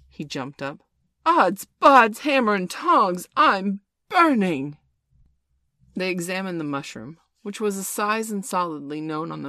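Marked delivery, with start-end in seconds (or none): 1.2-4.8 loud, higher yelp of pain; burning outcry. A narrator's reading. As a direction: yell as if your seat is on fire. Hook jumps up burning.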